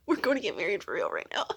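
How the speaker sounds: laughing and crying at once; giddy half-sobbing laugh; laughing through tears. Real, not acted. Laughing, emotional about wife.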